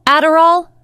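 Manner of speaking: high, loud disbelieving question; shocked gasp. Acted. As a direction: blurt it in shock. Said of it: "Akuma gasped".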